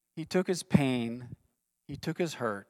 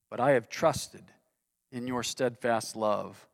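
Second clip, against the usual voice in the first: trusting scripture reading; 3 semitones lower than usual. Acted. Pastor reading David's closing words of trust, gentle. Pastor reads psalm's hopeful conclusion.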